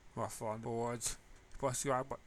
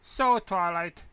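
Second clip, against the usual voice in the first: slow, loud, overly breezy opener; trying hard to sound casual; forced casual; 6 semitones higher, 12 dB louder, slower than usual. Acted. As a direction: fake nonchalance, drawn out. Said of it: "trying and feeling sound casual".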